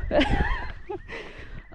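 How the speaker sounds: very high giddy laughter. Real, not acted. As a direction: laugh like you're losing it. Giddy excitement.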